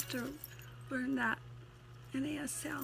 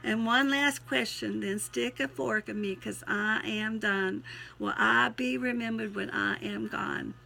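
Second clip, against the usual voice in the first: twangy verse reading; twangy poem recital; 4 dB louder than usual. Acted. Poet asks to be remembered, twangy recital. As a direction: wind up the poem with a country twang.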